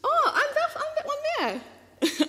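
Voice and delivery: high, giggling recognition; real embarrassed laughter; laughing embarrassed. Real, not acted. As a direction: laugh through the words, caught out. Sees her own photo.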